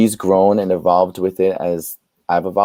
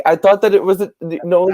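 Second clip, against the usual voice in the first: flustered protest; 11 semitones higher, 4 dB louder than usual. Retold or imitated. Arguing with mom over cut.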